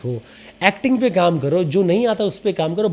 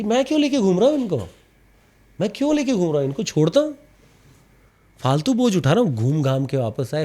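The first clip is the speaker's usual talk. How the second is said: fed-up Shravan Kumar; 3 semitones higher, faster than usual. Retold or imitated.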